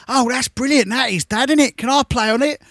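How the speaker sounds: a hint of an eager six-year-old; lightly mocked childish daughter. Daughter asks dad for a go on Pac-Man, lightly mocked childish voice. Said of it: "she don't talk like that. She's not six or seven".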